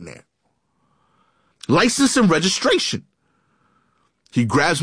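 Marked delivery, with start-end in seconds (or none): 1.7-3.0 much higher, mock-delirious demand; imitated exasperated yell. Delirious cop at third stop, mock yelling. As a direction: imitate a cop at his wits' end. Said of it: "he just starts yelling".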